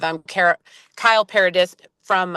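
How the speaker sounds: tripping over the name; stumbling, restarting words; stuttering. Real, not acted. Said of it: "I'm stuttering here".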